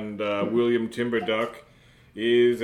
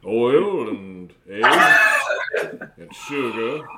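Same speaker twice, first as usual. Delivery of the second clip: put-on robot mouth keeps rambling in a light Minnesota accent; chatty Minnesota recipe talk, slowing near the end; a hint of Minnesota, amused; 5 dB louder than usual. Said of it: "this is a Minnesota accent".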